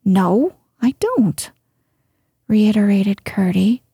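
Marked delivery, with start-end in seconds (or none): 0.0-1.5 put-on a touch of boyish offence; curt and stung, lightly voiced; a mildly offended boy's denial. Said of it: "in an offended tone".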